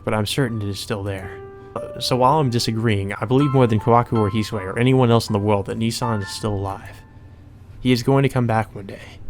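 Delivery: composed first-person narration; story narration. Acted. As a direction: read it out evenly and restrained. Reads game narration.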